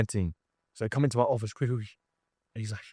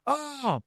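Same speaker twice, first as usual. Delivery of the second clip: mock pain scream; 12 semitones higher, 3 dB quieter than usual. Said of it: "And he screams in pain".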